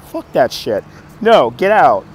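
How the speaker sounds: acted-out exasperated dismissal; retold frustrated refusal. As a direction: throw them out, in the retelling. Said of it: "I was frustrated at that point".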